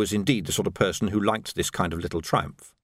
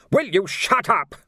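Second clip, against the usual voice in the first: slow, louder exasperated demand; 9 semitones higher, 4 dB louder, slower than usual. A narrator's reading. The Major, fed up, cutting off Nobby's prattle. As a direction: lose patience with him.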